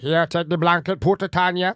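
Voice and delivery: lightly put-on Jamaican accent, teasing; hint of a Jamaican girl, playful. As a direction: loose Jamaican patois lilt. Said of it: "You want me to do Jamaican girl?".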